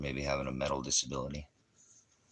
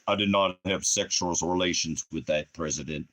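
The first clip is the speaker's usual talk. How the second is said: bad Bill Clinton twang; 3 dB louder than usual. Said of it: "I can't do a good twang".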